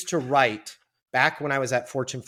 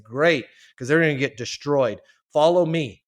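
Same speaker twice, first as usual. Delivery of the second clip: louder, higher brisk order; cheerful command; 4 semitones higher, 7 dB louder than usual. Retold or imitated. Client leading the new guy onto the shop floor, loud and brisk. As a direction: boom it out and lead the way. Boss ordering him along.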